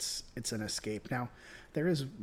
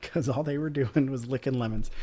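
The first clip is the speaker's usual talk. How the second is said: ordinary delivery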